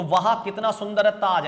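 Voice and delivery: exclamation of wonder. Shown as a demonstration. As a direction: admire it aloud, as if seeing it now. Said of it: "ऐसा चिन्ह लगा लेते हैं हम पीछे".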